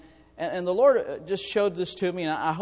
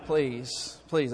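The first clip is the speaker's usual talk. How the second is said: 1 laughing mock plea; 4 semitones lower, 4 dB quieter, slower than usual. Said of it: "Most of y'all are going".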